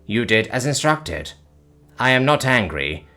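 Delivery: detached clinical calm; calm alien. Acted. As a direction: alien reassuring the panicked human. Alien reassures calmly.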